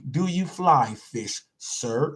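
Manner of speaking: "Do you fly fish" drawn out slowly, word by word; slow it right down so "fly fish" comes out clean. Shown as a demonstration. Host tackling a tongue twister for chat, slowly and carefully. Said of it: "I have to say it slow".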